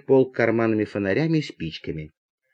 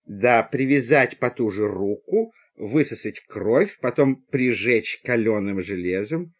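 slow, lowered, deliberate voice; ponderous advice; 4 semitones lower than usual. Acted. Passenger prescribing snakebite treatment, ponderous advice. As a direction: lay out the remedy slowly and low.

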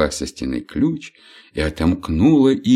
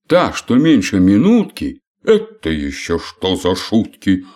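сердито; 4 dB louder than usual. Acted. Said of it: "рассердился Год".

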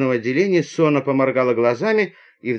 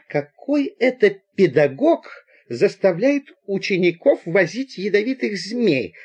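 higher-pitched, affronted questioning; indignant query; 5 semitones higher than usual. Acted. Citizen in pince-nez asking about the teacher, indignant. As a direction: ask it pointedly, pitched up.

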